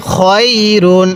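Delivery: drawn-out "খয়রুন" with a distinct final n; clear tanween. Shown as a demonstration. Teacher drilling tanween for learners, "খয়রুন" stretched and clear. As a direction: lengthen "খয়রুন" evenly, sound the n. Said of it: "কিভাবে শিখব?".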